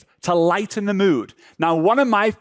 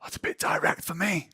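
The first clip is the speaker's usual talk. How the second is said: soft, reluctant put-on voice; timid objector; 9 dB quieter than usual. Hesitant client objecting to directness, soft timid voice. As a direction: shrink back from it, much quieter. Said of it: "some people are like".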